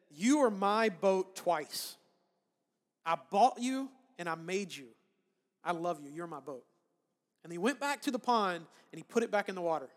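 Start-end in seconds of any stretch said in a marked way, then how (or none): 0.1-6.6 tender to his boat. Retold or imitated. Boy tenderly tells his rebought boat it is his, slow and tender. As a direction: linger on each word like holding something precious. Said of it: "he looked at it and he said".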